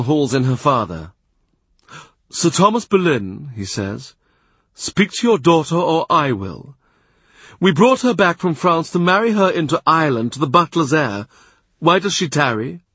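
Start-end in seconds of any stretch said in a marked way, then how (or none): 2.3-3.5 stern Cardinal. A narrator's reading. Cardinal hauls in her father. 4.7-12.8 raised, louder voice of an imperious cardinal; a powerful churchman dressing down a courtier; stern Cardinal. A narrator's reading. Cardinal scolds Boleyn.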